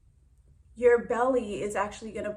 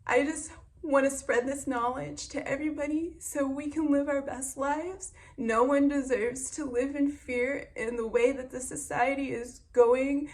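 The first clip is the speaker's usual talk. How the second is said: pushing through rising emotion; real emotion breaking into the words; getting emotional; 5 semitones higher, 4 dB louder than usual. Real, not acted. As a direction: voice welling up, higher and louder. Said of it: "I'm getting emotional".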